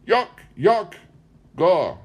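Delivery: put-on high, loud cracked old woman voice; squeaky high crone babble; old woman's mumble. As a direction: mimic a senile old woman's garbled words. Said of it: "It sounded like".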